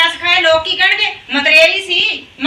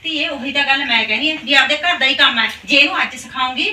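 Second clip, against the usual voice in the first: soothing coax; 4 semitones lower, 4 dB quieter than usual. Acted. Stepmother coaxing the daughter-in-law.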